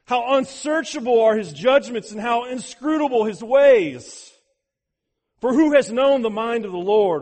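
loud, soaring scripture declamation; exultant proclamation. Acted. Preacher voices Paul overwhelmed atop theology's Mount Everest, exultant proclamation. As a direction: proclaim it in awe, long booming cries easing toward the end. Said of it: "He says this".

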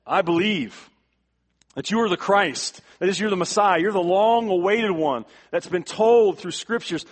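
loud, high, ringing declaration of faith; Martha's confession preached at full force; fervent loud confession. Acted. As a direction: proclaim it from the pulpit as Martha. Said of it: "He says".

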